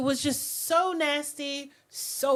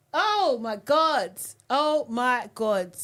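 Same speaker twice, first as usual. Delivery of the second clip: exasperated oh my god; 5 dB louder, slower than usual. Real, not acted. Reacting to rude behaviour.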